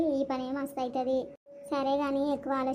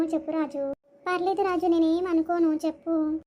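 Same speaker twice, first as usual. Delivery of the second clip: eager urging; 4 semitones higher, 5 dB louder than usual. Acted. Urging Raju to confess.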